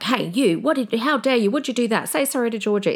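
how dare you, pretend harsh parent; a hint of a mean scolding; mock mean scolding. Shown as a demonstration. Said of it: "like I'm being really mean".

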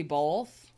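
"both" with an L slipped in; "both" pronounced bolth, Canadian-style. Real, not acted. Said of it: "very Canadian way to say both".

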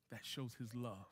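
hushed repeat. Shown as a demonstration. Pastor to congregation, hushed and tender. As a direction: let it sink in quietly, almost to yourself. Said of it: "what does that show".

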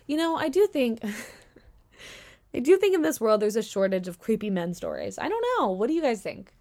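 dry sarcastic tone. Real, not acted. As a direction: say it with heavy sarcasm. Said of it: "that is my sarcasm".

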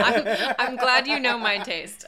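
laughing through the words. Real, not acted. Laughing reply to friend's teasing.

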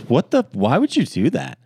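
high-pitched imitation of an upset date; mildly protest, voice pushed up high; mock dismay. Pranked date asking why, retold in high mock dismay.

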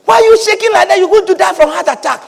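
high-pitched, incredulous scolding; alarmed onlooker. Retold or imitated. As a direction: fuss at a trembling old man. Onlooker alarmed at shaking old man.

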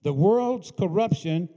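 loud, rhythmic pulpit preaching; fiery preaching. Acted. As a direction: drive it home like a preacher. Preaching at full force.

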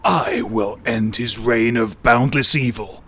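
superhero voice. Acted. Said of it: "That's my superhero voice".

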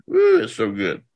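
whispered aside, savoring it; awed whisper. Real, not acted. Preacher marveling at his own point, whispered.

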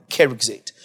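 keruxate with a final "zate" syllable; English pronunciation. Shown as a demonstration. Teacher confirming the English reading for students, anglicised pronunciation. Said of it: "if you're gonna pronounce it English".

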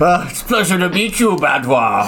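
second try at a Dragonborn voice. Acted. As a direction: settle into the Dragonborn voice. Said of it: "I'm trying to change my voice to a different Dragonborn".

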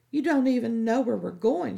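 a light scold of the eager hound. Acted. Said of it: "she scolded".

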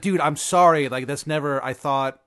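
flustered acted apology, loud at the start; freaking out. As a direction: play mild panic while apologizing. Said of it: "He's, like, really freaking out".

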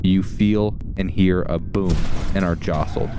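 dramatic scene-setting over music; game master narration. A narrator's reading. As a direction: paint the falling pod vividly. GM sets the descent scene.

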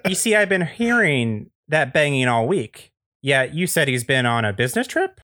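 lightly voiced suspicious neighbor; Andy Daly. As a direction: catch them out, folksy and questioning. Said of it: "is played by Andy Daly".

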